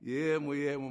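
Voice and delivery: gentle, unforced call to a son; soothing divine voice, acted out; soft voice of Spirit. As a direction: say it tenderly, without shouting. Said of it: "Ήρθε η φωνή του Πνεύματος του Αγίου, μαλακιά".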